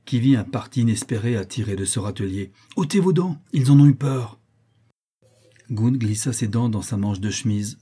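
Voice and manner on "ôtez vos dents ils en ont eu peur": high urgent exclamation; excited cry. A narrator's reading. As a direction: blurt the sudden idea. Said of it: "s'écria Sir Henry".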